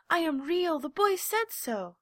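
high, loud, pleading insistence; near tears. A narrator's reading. Little rabbit pleads, nearly crying, high. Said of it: "nearly began to cry".

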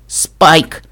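sudden gasp of realization. Acted. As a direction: gasp the name in alarm. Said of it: "ахнул я". (ахнув от испуга)

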